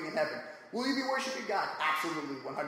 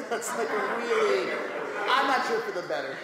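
laughing; 3 semitones higher, 4 dB louder than usual. Real, not acted. Laughing at own joke.

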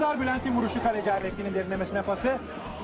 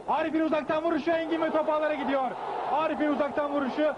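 excited goal call; 4 semitones higher than usual. Acted. Commentator calls a goal.

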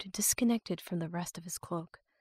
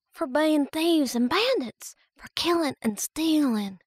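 put-on scared young girl; 8 semitones higher, 4 dB louder than usual. A narrator's reading. Romani voiced as scared girl.

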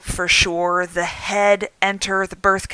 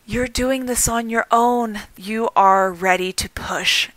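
calm midwife voice. Retold or imitated. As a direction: reassure her gently, almost whispering. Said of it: "with just this calm voice".

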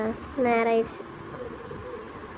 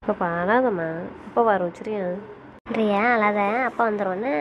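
soothing. Acted. Woman telling crying baby that father will come, soothing.

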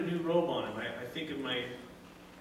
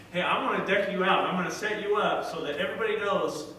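proud father; 3 semitones higher, 6 dB louder than usual. Retold or imitated. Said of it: "this dad saying".

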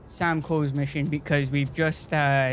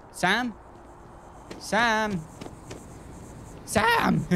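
searching call, rising into a high yelp; playful, escalating call for a missing companion; 7 semitones higher, much slower than usual. Pretend. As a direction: call the name higher each time, ending in a shout. Calling out for missing Sam.

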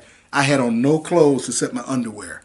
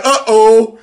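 scared demons; 8 semitones higher, 9 dB louder than usual. Retold or imitated. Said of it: "they like".

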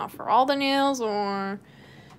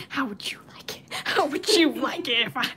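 breathy whisper, ending in a laugh; 2 semitones higher, 4 dB louder than usual. Retold or imitated. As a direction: whisper it like creepy background voices. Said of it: "They just kept saying".

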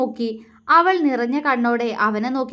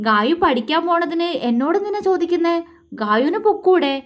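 puzzled question pitched higher; 5 semitones higher than usual. Acted. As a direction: ask it higher, not understanding why she asks. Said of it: "അവൻ സംശയത്തോടെ അവളോട് ചോദിച്ചു". (സംശയത്തോടെ ഉയർന്ന സ്വരത്തിൽ ചോദ്യം)

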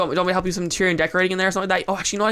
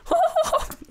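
high squealing laugh. Real, not acted. Builder squeals at the pretty hobbit hole, laughing.

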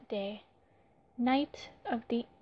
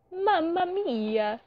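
dramatic announcer; 6 semitones higher, 4 dB louder, slower than usual. Acted. Dramatic title flourish.

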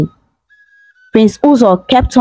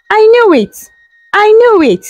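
exclaiming. Acted. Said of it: "she exclaimed in awe".

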